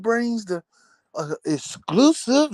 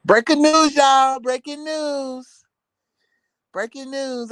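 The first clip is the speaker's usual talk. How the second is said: mock breaking news; 4 semitones higher than usual. Parodying gossip news announcement.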